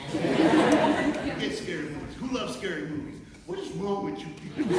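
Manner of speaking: high, loud mock outrage at the crowd; big, loud, high-pitched comic outburst; comic shouting. Real, not acted. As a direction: holler at the audience in disbelief. Comic rant at audience.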